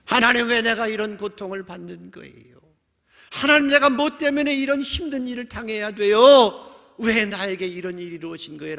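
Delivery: high-pitched lament to God; complaining plea. Acted. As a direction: plead why, swelling then dropping off. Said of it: "하소연하고 투덜거리기 시작하고". (높은 목소리로 원망 섞어 하소연하듯)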